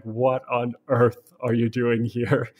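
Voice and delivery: slow, drawn-out disbelief; a touch of slow-spoken astonishment; mildly baffled. Retold or imitated. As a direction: retell her puzzlement, spacing out the words. Woman baffled by lost stranger.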